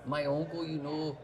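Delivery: attempted Scottish accent sliding into Jamaican; Scottish drifting Jamaican. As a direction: try Scottish, land nearer Jamaican. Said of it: "You're drifting into Jamaican".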